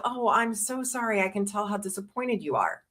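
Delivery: quietly sit with her disappointment; a mother answering her daughter softly with sympathy; empathetic response. Shown as a demonstration. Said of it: "it's actually better to just go".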